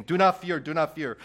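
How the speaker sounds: "Do not fear" called out loud and high; proclaimed do not fear. Shown as a demonstration. Pastor proclaiming Jesus's command, loud. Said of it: "what is he saying?".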